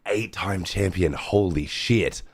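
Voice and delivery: slow, stunned disbelief; drawn out in amazement; awed. Real, not acted. Awed at champion result.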